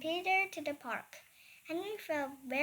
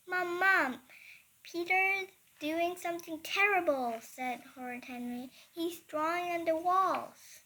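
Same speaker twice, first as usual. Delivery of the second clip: calling out; 3 semitones higher, 4 dB louder than usual. Acted. Henry calling out to tell on Peter.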